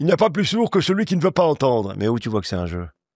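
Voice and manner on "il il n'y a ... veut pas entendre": very high, put-on elderly old-man voice. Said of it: "En vieux ?".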